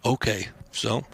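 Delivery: whispered swear under breath; whispered curse. Real, not acted. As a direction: hiss it to yourself. Muttered curse after being yelled at.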